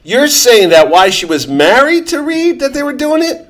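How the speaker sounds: incredulous, pitch climbing high; astonished, high-pitched double-check; mind blown. Real, not acted. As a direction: question it in real disbelief. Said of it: "you're blowing my mind on this thing".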